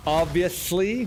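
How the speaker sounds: OBVIOUSLY stretched slow with a rising end; drawn-out echo. Real, not acted. Streamer repeating "Obviously" to himself about loot, drawn out. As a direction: linger on "Obviously", lifting at the end.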